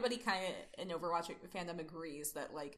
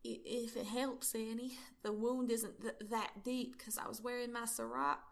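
higher, hesitant bad Southern accent; McCree; 4 semitones higher than usual. McCree playing down his wound, bad Southern accent. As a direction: stumble through it in a put-on Southern accent. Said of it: "do the bad Southern accent".

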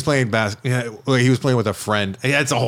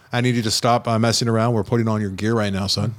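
stoic dad; 2 semitones lower than usual. Retold or imitated. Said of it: "I was giving him that".

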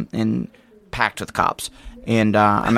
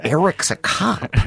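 slow, high incredulous drawl; disbelieving; 8 semitones higher, slower than usual. Retold or imitated. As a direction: act stunned by the news. Mocking friend's disbelief.

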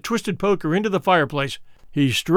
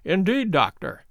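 bland. Acted. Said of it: "said Holmes blandly".

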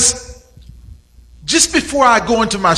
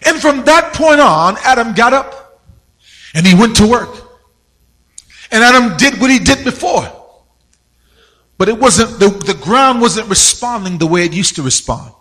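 building sermon. Acted. Preacher telling his church about Adam's curse, building fervor. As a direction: preach it, leaning into the story of Adam.

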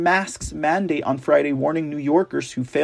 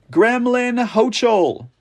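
mocking, drawn out; 6 semitones higher, slower than usual. Real, not acted.

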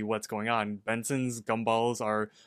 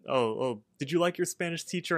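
lightly voiced mom, higher and quick; mom's voice; 5 semitones higher than usual. Mom asking years later about the Spanish teacher, lightly mimicked. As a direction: ask like a curious mother. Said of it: "she asked me".

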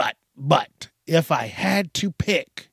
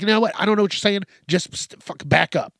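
annoyed; 4 semitones higher, 3 dB louder, faster than usual. Pretend. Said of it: "You'd be so pissed off".

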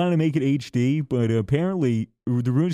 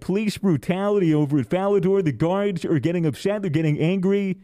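mock news report; 3 semitones higher than usual. Mock news broadcast of game protest.

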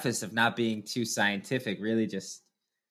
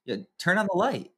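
put-on higher, small bossy toddler voice; toddler son voice; 8 semitones higher than usual. Dad voicing his toddler son's demand in a higher voice. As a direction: play the two-year-old waking from his nap. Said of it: "the first thing he says is".

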